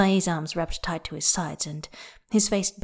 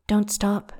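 breathy; 3 semitones higher than usual. A narrator's reading. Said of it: "he breathes".

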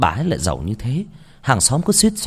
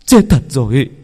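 breathless whispered dread bursting into a loud cry; panicked horror; 3 semitones higher, 5 dB louder than usual. Acted. Husband finding his bride dead, panicked whisper then cry. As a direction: gasp it out, then let the terror break loose. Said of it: "Anh hoảng loạn".

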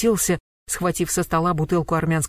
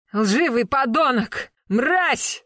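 high, spitting rage; furious yell; 7 semitones higher, much slower than usual. A narrator's reading. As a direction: scream the insults, spitting. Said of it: "заорал, брызгая слюной". (яростный крик со слюной)

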